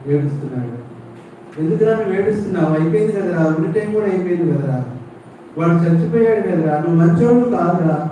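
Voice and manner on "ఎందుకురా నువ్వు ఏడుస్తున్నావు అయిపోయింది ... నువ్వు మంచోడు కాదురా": high, scolding rant that climbs higher; a father berating his son, pitch rising; angry father. Acted. Father scolding the son he thinks failed him, angry and high. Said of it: "అలిగాడు".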